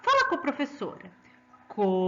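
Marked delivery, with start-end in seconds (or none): 1.7-2.1 coruja in separate syllables with a forceful RU; teacher modelling co, RU, ja for pupils to repeat; stress on middle syllable. Shown as a demonstration. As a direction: put more force on the RU of coruja. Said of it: "bota mais força quando você faz o ru".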